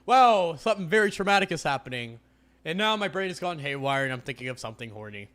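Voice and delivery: lightly voiced flustered Avery; a hint of a flustered heroine; mock inner voice. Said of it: "Avery's like".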